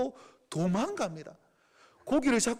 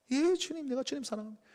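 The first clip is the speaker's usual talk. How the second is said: much softer, subdued reply; ashamed hushed answer; 7 dB quieter than usual. Acted. Peter answering Jesus in a quiet, ashamed voice. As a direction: confess love barely above a murmur.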